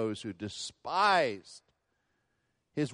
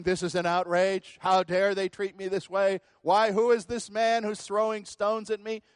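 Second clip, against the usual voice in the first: indignant outrage; 6 semitones higher, 5 dB louder than usual. Retold or imitated. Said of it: "He wasn't saying".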